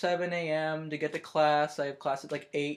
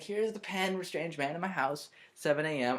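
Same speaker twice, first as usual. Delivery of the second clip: dainty; 4 dB quieter than usual. Retold or imitated. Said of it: "I give it to him very daintily".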